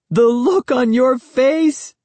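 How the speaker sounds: put-on high, slow, gleeful girl voice; teasing girl exclaiming. A narrator's reading. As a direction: crow it like a smug cousin. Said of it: "she exclaimed".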